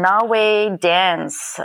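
Naway Dance drawn out slowly, each syllable clear; slow careful spelling. Shown as a demonstration. Guest slowly spells her studio name for listeners. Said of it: "so N A W A Y and then dance".

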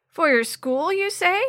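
put-on raspy old man, question rising high; Mister Chambers raspy voice. A narrator's reading. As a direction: rasp it out, curious and surprised. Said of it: "in a raspy sort of voice".

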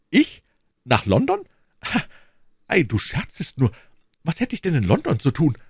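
high, loud disbelief; husband hears he must go to London; astonished. A narrator's reading.

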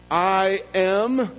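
slow, deliberate Bible reading; measured, solemn proclamation of scripture. A narrator's reading. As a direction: read the verse with weight, pausing between phrases. Reading the verse aloud solemnly.

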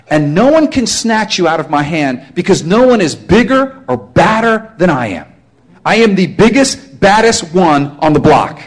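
a hint of a protective shepherd bragging; Jesus speaking. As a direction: boast like the biggest one on the block. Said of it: "here's what he says".

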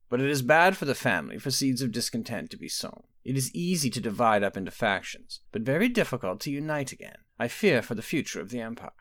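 a hint of a knowing old sorceress; mother calmly probing her daughter, lightly voiced; aging mother. Quintilla fears for the family.

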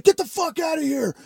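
high-pitched mock yell; imitated angry order. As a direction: act out chasing someone off, without full volume. Retelling angry man confronting him.

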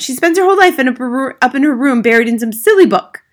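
loud, high-pitched retort; dismissive mother. Acted. Mother to teacher about daughter's reading, dismissive. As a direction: scoff loudly at the news.

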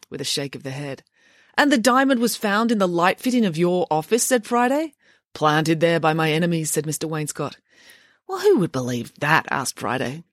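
reading a children's novel aloud with lively voiced dialogue; story narration. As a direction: tell the story to listeners, voicing each character. Reads novel aloud to listeners.

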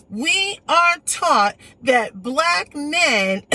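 very slow, each word pressed out hard; slow retold quote. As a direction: spell out "We are taught" with heavy weight. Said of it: "there was a woman who told me".

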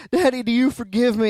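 lightly voiced weepy child's plea; a hint of a small girl crying as she asks; crying little girl. Daughter asks her dad again for forgiveness, lightly weepy child. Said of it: "that just precious five-year-old cry".

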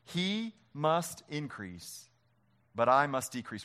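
slow, weighty reading of the verse; slow scripture reading. Shown as a demonstration. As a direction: lay each word down slowly. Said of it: "Will you read it with me?".

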